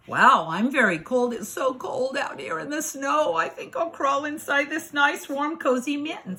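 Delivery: a hint of a chilly fox.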